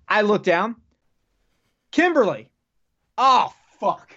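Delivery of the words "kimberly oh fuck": retold shock, pitched high; acted-out "oh no" moment; dawning horror. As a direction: play the sinking realization, voice raised in pitch. Acting out his horrified realization.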